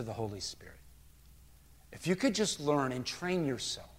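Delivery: soft, low, intimate teaching; changed, gentler tone. Acted. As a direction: counsel someone close, hushed and patient. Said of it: "the tone of voice has changed".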